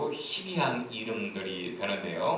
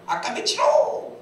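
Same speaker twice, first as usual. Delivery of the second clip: high, loud stretched yell; shouted command; 11 semitones higher, 5 dB louder, slower than usual. Acted. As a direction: repeat the officer's holler, slow and high. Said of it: "또 이렇게 소리쳤습니다".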